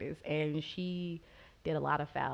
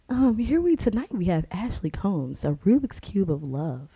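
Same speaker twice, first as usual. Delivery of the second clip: mock announcer; 7 dB louder than usual. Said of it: "have Lindsay ... read that next time".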